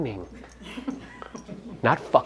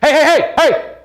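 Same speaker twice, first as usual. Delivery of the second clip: high, loud repeated calls for attention; attention-begging shout; 10 semitones higher, 5 dB louder than usual. Shown as a demonstration. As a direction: yell hey like you're begging a crowd to look. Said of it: "going like this".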